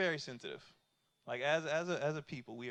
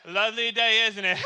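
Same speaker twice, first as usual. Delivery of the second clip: louder, rehearsed small talk; kid reciting script; 2 semitones higher, 5 dB louder than usual. Acted. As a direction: deliver memorized pleasantries like a kid selling door to door. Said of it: "He was going through his script".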